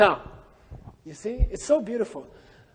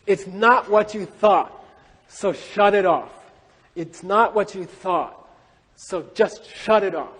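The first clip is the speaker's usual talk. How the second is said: slow verse reading. Acted.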